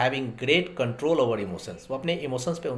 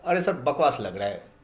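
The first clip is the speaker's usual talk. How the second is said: blunt complaint; 2 semitones higher than usual. Pretend. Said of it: "सीधा मुंह पे बोल देगा".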